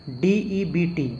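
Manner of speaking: normal talking voice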